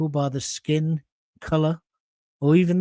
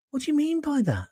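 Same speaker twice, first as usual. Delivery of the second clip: indignant disbelief; 10 semitones higher, 4 dB quieter than usual. Real, not acted. Indignant at viewer's comment.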